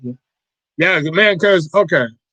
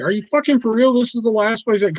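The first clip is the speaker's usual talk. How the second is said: high, raised mock outburst of disbelief; retold fury; 6 semitones higher than usual. Venting about the empty store shelf, imitating his own angry disbelief. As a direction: replay the rage, pitched up. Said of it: "I'm legitimately pissed off in the store".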